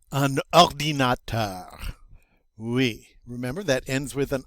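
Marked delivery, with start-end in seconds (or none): 0.1-1.9 Un ordinateur said slowly with a guttural French R at the end; teacher's slow French model. Shown as a demonstration. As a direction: draw out ordinateur, rolling the R in the throat. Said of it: "pronounce it with that guttural sound".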